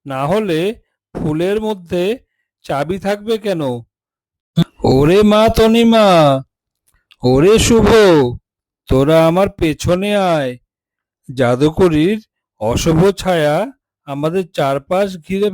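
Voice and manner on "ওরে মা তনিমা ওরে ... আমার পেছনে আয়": put-on father shouting for his children to come close; calling out. বাবা সন্তানদের ডাকছে, উঁচু গলায়.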